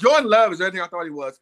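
steadier retake. Real, not acted. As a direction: still quick but clearer, each word landing. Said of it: "Back up".

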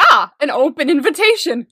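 imitating someone seizing a chance; hammed-up eager misreading; mock delighted realization. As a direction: exclaim "Ah" as if invited in. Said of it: "Don't be like".

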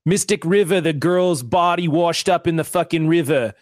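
put-on a weak Boston accent. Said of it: "my Boston accent isn't good either".

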